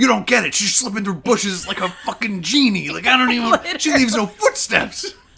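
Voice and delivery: very high, loud, heated, angry ranting snap. Retelling how Richard snapped at Caitlin about tracking her: imitating Richard angrily snapping. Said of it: "snapping at Caitlin".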